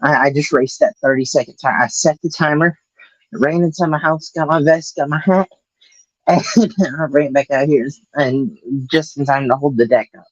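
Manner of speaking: breathless from sprinting; talking while catching breath. Real, not acted. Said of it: "forgive me if I'm out of breath".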